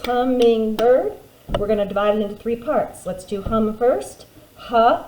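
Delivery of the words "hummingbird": slow syllables. Shown as a demonstration. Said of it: "three syllables".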